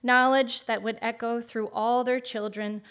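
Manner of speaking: grand storybook narration; epic fantasy narrator. A narrator's reading. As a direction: tell it like an old legend. Reads an AI fantasy story aloud.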